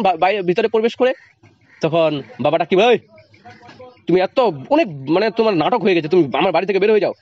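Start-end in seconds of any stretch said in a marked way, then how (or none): 2.9-7.1 angry father. Acted. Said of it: "এভাবে বলে".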